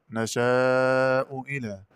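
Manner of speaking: نشاء إلى with a clear second hamza, long held aa in نشاء; measured recital of نشاء إلى with the hamza fully sounded; reference reading. Shown as a demonstration. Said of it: "قرأ بتسهيل الهمزة الثانية".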